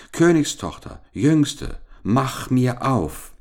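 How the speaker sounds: high storybook call, last words drawn out; insistent calling. A narrator's reading. Frog demands the princess open up, insistent calling. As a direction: call through the door to be let in. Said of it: "klopfte es zum zweiten Mal und rief".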